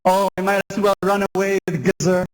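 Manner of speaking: pleading cry. Acted. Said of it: "She cries in exasperation".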